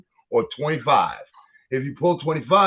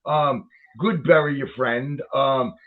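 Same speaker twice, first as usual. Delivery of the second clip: mock greeting; 3 semitones lower than usual. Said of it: "It's not good morning".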